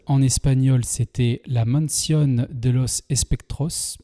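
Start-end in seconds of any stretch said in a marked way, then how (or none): 1.5-4.0 slow, careful Spanish pronunciation of the title; Spanish accent. Shown as a demonstration. Reviewer reading the Spanish film title in a Spanish accent. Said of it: "Excusez mon accent".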